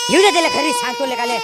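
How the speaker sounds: loud, crying threat; half sobbing, half raging; tearful anger. Acted. Father upset over his son, tearful loud threat.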